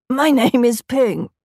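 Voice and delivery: put-on voice with MY stressed; trying to sound like a boy; lightly faked manly voice; fake boy voice. Disguised girl faking boy voice.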